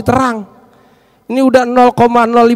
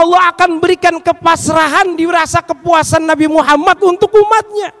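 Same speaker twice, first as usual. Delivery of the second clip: higher-pitched, insistent preacher voice; impassioned preaching; 7 semitones higher, 4 dB louder than usual. Real, not acted. Preacher assuring the congregation of the Prophet's intercession, impassioned preaching. Preacher raises his voice mid-sermon.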